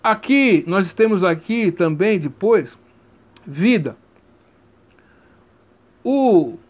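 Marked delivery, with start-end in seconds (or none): 3.4-4.0 vida with a light, falling da; vida, da said very lightly; light final syllable. Shown as a demonstration. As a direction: stress VI, let da fade in vida. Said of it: "é pronunciada bem levemente".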